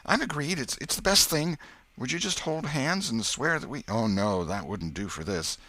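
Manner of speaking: put-on high, excited boyish voice; eager boy. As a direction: rattle it off eagerly. Tom eager about oath.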